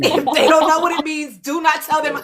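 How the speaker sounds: laughing insistence. Real, not acted. Host warning live viewers about gatekeeping, laughingly insistent. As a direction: lay down the rule through a laugh. Jokingly repeats her gatekeeping order.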